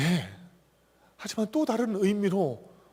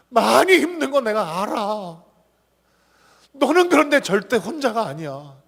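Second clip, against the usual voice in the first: voice of Jesus; 4 semitones higher, 7 dB louder than usual. Acted. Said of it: "우리에게 말씀하십니다".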